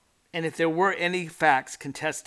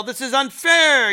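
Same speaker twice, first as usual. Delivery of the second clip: higher, louder, slow indignant yell; mock yell; 8 semitones higher, 10 dB louder, slower than usual. Accused man yelling at the police, slow mock yell. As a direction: drag it out like an outraged protest. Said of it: "You yell".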